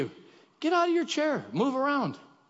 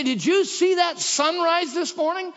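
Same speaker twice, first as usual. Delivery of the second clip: mock gushing; 9 semitones higher, 4 dB louder than usual. Quoting everyday excitement.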